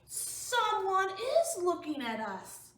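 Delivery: lightly voiced nervous Gerald, slow; a hint of a worried elephant; slow, spooky elephant. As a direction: lean in and say it slowly. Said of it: "Comes closer".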